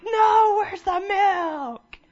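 very high, loud, slow crying shout; wailing toddler. Retold or imitated. Preacher imitates a toddler screaming for milk, crying shout. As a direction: wail like a kid who wants milk now. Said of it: "They're like".

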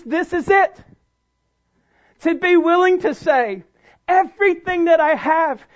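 loud, emphatic preacher's delivery; impassioned preaching. Real, not acted. Preacher urging the congregation to full surrender, impassioned. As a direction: drive it home with stretched key words.

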